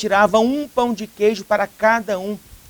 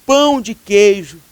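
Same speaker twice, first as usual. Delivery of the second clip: sobbing repetition; 6 dB louder than usual. Acted. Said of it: "começou a repetir".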